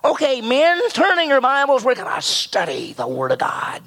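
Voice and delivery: put-on the old seminary professor calling class to order; Prof Hendricks impression. Preacher imitates his professor starting a class, in the professor's voice. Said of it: "That's how he talked".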